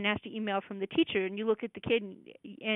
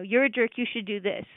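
a mild scolding jab, a bit louder; critical voice; 3 dB louder than usual. Retold or imitated. Parent scolding someone, mildly harsh and critical. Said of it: "uses a critical voice to say".

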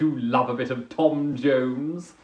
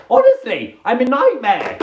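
mock exasperation; 7 semitones higher, 6 dB louder than usual. Exasperated at own fussy order.

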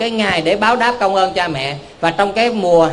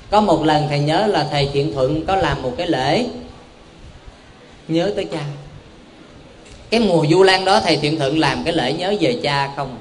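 ordinary talk

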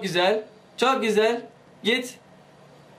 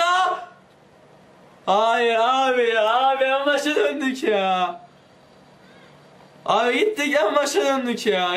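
dismayed groan; 4 semitones higher, slower than usual. Real, not acted. Fell back to start.

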